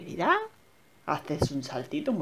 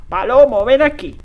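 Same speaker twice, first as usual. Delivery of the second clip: loud call to come here; 6 semitones higher, 12 dB louder than usual. Real, not acted. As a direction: shout for Palomo. Calling the goose.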